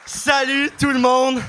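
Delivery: enthusiastic greeting. Acted. Podcast opening greeting to audience.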